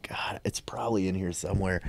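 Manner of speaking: whispered aside under the breath; real whisper. Real, not acted. Whispering to herself while searching the shelf for the book. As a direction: drop to a whisper while looking around.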